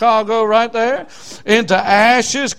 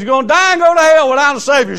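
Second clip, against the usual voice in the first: loud, high, fast hellfire warning; raised preacher's voice, rushing and emphatic; urgent preaching; 6 semitones higher, 6 dB louder, faster than usual. Retold or imitated. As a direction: hurl the warning out quickly. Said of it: "I said".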